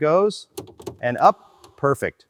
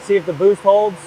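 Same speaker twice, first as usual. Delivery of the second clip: raised over engine; 5 semitones higher, 3 dB louder than usual. Real, not acted. Calling over running engine.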